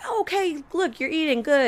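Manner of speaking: mock surprised. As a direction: perk up, pleasantly surprised at him. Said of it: "And I'm like".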